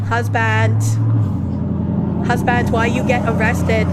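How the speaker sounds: loud calling out. Pretend. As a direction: shout it across the room. Calling out to husband in stream.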